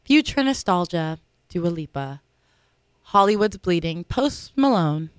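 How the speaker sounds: slow, showy nominee announcement; award announcer voice. Acted. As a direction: read the nominees like an awards host. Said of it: "Should I use my award announcing voice again?".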